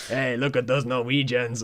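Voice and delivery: put-on a lightly Mexican-tinged accent; botched British caricature sliding into Mexican accent; accidental Mexican accent. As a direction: slip into a mild mock Mexican accent. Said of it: "I don't know why I went Mexican".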